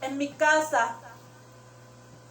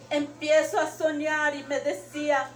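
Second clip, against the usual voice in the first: crying while telling. Real, not acted. Telling her dream while crying.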